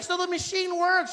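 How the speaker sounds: American woman explaining herself, high and loud. Retold or imitated. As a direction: play the naive tourist. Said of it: "She's like".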